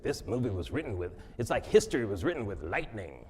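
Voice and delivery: a hint of a stately president praising a film; Woodrow Wilson impression. Quoting the president on the movie, a light impression. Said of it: "Woodrow Wilson impression".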